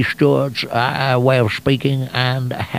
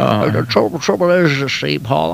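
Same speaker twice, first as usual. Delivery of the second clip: Jimmy Stewart. Acted. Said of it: "that becomes Jimmy Stewart".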